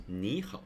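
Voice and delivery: 你好 with 你 going up, then 好; second tone first. Shown as a demonstration. Teacher reading the written word aloud, rising tone on 你. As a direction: let 你 rise and join it to 好. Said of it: "like a second tone going up".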